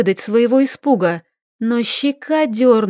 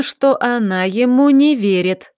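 plain reading voice

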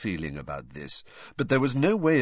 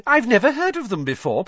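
feigned interest; 7 dB louder than usual. A narrator's reading.

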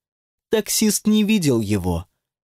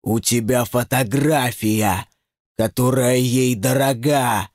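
demon scolding. Acted.

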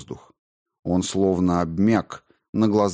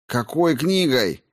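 slow, higher puzzled question; confused and taken aback; baffled; 7 semitones higher, slower than usual. A narrator's reading. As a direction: ask in blank incomprehension. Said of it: "не понял Соловей".

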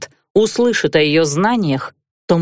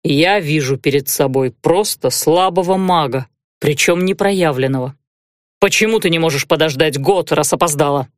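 necromancer; 4 semitones lower than usual. Acted. Necromancer character voice.

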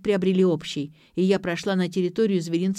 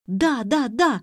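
rattling off; 4 semitones higher, slower than usual. A narrator's reading. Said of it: "затараторила Ксю".

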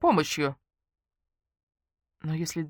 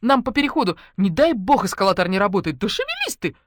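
frantic calls while rushing; shouting; 3 semitones higher, 5 dB louder than usual. Acted. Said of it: "крикнула она мне".

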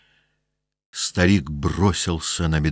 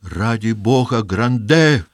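a mild raised plea; crying out; 4 semitones higher, slower than usual. Acted. Mother crying out to her husband. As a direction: call on him for God's sake. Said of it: "закричала мать".

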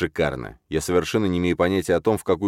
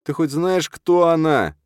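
grumbling; 11 semitones higher, 4 dB louder, slower than usual. A narrator's reading. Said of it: "бурчит выскочка-переросток".

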